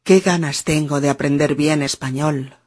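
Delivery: frase dicha marcando el ritmo. Shown as a demonstration. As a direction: di la frase entera, marcando cada golpe. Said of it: "si yo digo". (frase modelo con ritmo marcado)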